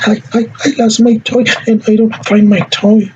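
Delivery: high, halting mock sobbing; crying child. Shown as a demonstration. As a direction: stammer it out like a tearful child. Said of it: "And the child may say".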